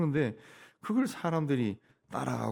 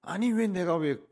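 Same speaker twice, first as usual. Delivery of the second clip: higher, louder indignant protest; preacher voicing an angry king's defiance; defiant outrage; 8 semitones higher, 4 dB louder than usual. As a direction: protest like a king refusing his fate. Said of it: "막 반발심이 일어나고 막 분노가 치밀어 올랐다".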